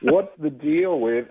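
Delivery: slow, drawn-out Seinfeld bit; lightly voiced Seinfeld setup. Comedian mimicking Seinfeld into his pocket dictaphone, slow. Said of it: "I'm basically Seinfeld".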